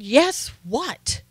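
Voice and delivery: mock stern demand; menacing Southern mother. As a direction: prompt like a mom expecting manners. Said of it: "woman turns around really quickly. She has a knife".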